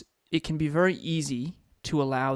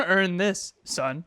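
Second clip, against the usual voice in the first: smug taunt; 3 semitones higher, much slower than usual. Pretend. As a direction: ham up the smug line. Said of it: "You're thinking".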